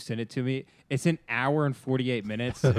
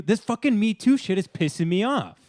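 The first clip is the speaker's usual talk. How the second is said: mock angry quote; 8 semitones higher than usual. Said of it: "I'm quoting you".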